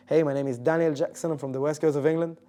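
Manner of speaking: a lightly put-on English accent; an out-of-practice English accent. Shown as a demonstration. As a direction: do your old English accent, casually. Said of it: "Wait, wait, let me try".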